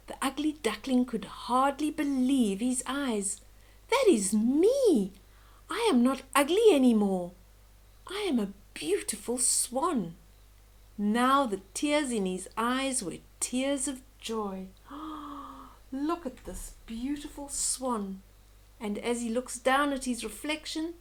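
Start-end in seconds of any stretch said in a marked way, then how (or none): 3.9-10.2 joyful amazement. Acted. Duckling sees his reflection. 14.9-15.6 soft gasp of awe. Real, not acted. Narrator admires beautiful swan. 15.9-18.2 soft awed remark. Real, not acted. Narrator admires beautiful swan.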